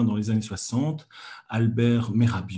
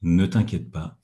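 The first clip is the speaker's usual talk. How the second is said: calm reassurance; 5 semitones lower than usual. Shown as a demonstration. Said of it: "alors que si vous dites".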